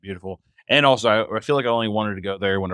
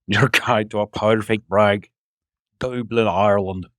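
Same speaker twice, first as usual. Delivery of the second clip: slow attempt at an Irish brogue; Irish accent; slower than usual. Echoing the Dublin slogan in an attempted Irish accent. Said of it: "I wish I could do an Irish accent very well".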